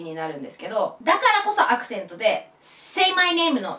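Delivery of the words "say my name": "Say" hit a bit harder than "my name"; stress on say. Shown as a demonstration. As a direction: lean slightly on "Say". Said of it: "若干アクセントを強く". (「Say」に少し強くアクセント)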